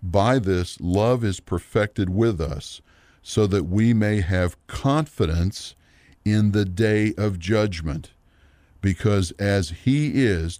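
measured Bible reading, pausing between phrases; scripture reading. Acted. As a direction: read the verse out deliberately for a congregation. Reads scripture aloud.

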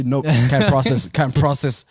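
slow mechanical robot refusal; imitating an error message. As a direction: drag it out like a stuck machine. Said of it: "den der lyd der".

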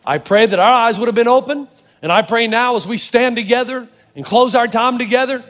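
pastor's steady closing prayer. Acted. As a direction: pray it sincerely to close.

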